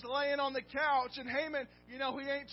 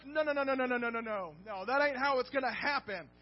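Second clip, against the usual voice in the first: loud, firm refusal in the king's voice; indignant king; 6 dB louder than usual. Retold or imitated. Preacher voicing the king refusing Haman, loud firm refusal. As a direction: shut him down, no no no. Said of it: "He's saying".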